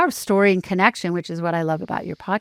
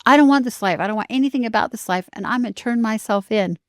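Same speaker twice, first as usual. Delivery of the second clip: super animated; 4 semitones higher than usual. Retold or imitated. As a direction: imitate a worked-up teen declaring it. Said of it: "he's super animated".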